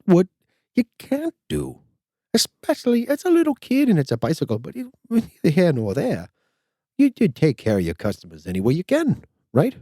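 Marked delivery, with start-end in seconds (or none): 0.1-7.3 high emphatic. Real, not acted. Ranting about customer service.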